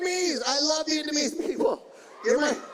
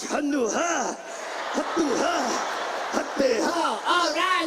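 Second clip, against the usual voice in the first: annoying porn actress; 2 semitones higher than usual. Acted. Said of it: "You know how annoying that shit is".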